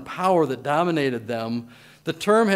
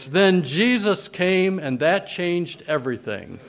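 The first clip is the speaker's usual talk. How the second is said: slow, ringing preacher's proclamation; clarion voice; 3 semitones higher than usual. Retold or imitated. Preacher recalling a sermon, in a slow ringing voice. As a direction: proclaim it slowly so the whole church hears. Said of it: "in a clarion voice".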